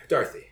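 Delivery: "Dorothy" as a quick DAR-thee; quick DAR pronunciation. Shown as a demonstration. Guest showing the easier way, "Dorothy" as quick DAR-thee. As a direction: toss off "Dorothy" with a Darth-like start. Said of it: "easier to just gi-, give a quick".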